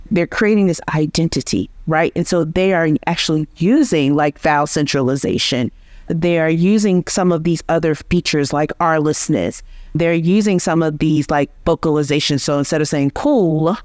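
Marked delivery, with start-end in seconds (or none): none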